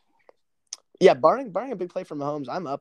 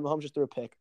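shocked; 4 dB quieter, faster than usual. Real, not acted. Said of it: "Oh my God".

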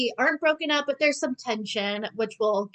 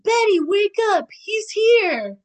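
higher, louder urgent call to Betty; rude wake-up call; 10 semitones higher, 6 dB louder, slower than usual. Retold or imitated. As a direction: barge in and shout her awake. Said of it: "Polly is rude and barges in and is like".

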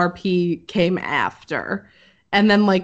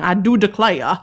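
John Goodman. Acted. Imagining plantation accents for co-hosts, mock John Goodman voice. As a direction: do a light put-on "I do declare" voice. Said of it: "a John Goodman voice going".

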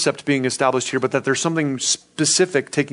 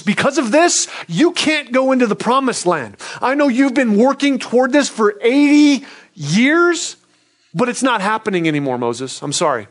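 high, earnest voice of God passing sentence, softening to an apology; God's sorrowful verdict; 6 semitones higher than usual. Retold or imitated. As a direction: raise the voice for the ruling, then drop it for "I'm sorry". God tells Moses his punishment.

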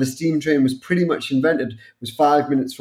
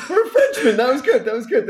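high, laughing teasing jab; laughing tease; 9 semitones higher, faster than usual. Real, not acted. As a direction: rib him while still laughing.

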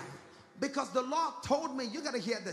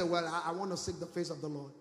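mock pious excuse; 4 semitones lower than usual. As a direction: imitate a reluctant believer, pitched low. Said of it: "they begin to say".

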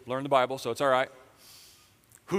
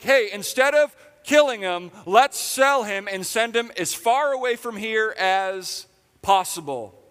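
much higher and louder, slow cheery pitch; chirpy Judah; 7 semitones higher, 7 dB louder than usual. Pretend. Pastor voicing Judah proposing to sell Joseph, cheery. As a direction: pitch it like a salesman.

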